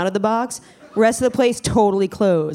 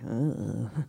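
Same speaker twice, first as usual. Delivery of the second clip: low, quiet grunt of unease; quiet retold groan; low disgusted ugh; 7 semitones lower, 11 dB quieter than usual. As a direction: let out a soft, low ugh. Reacting to women staring.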